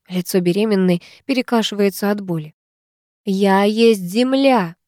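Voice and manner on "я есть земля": slow, drawn-out ritual cry; loud cry. Acted. Witch crying out her incantation loudly. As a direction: call it out to the sky. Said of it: "громко кричит светловолосая".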